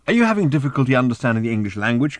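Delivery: brisk, mildly exasperated challenge. Acted. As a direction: rattle it off impatiently into the phone. Ford arguing with room service.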